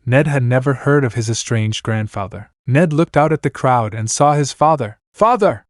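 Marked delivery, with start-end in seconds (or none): 5.1-5.6 cried out. A narrator's reading. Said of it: "Ned cried".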